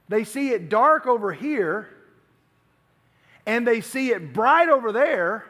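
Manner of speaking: ordinary talk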